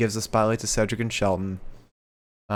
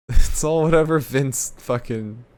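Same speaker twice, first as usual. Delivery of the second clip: bitter rant; 2 semitones higher than usual. Real, not acted. Ranting about Vince.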